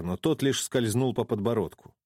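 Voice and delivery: ordinary delivery, nothing marked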